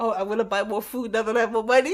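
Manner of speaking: normal talking voice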